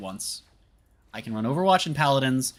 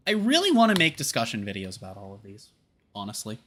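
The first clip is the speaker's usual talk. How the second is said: words around a sip of milk; drinking while talking; 3 semitones lower than usual. Real, not acted. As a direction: talk between sips of chocolate milk. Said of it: "Sorry, drinking chocolate milk".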